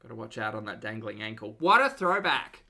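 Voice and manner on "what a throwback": loud, slow, delighted exclamation; excited. Real, not acted. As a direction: cry it out with nostalgic delight. Reacting to old clip.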